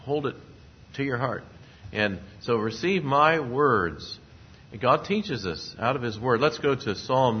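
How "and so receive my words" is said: slow, weighty quote. Acted. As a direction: slowly lean on receive. Preacher quoting proverb emphatically.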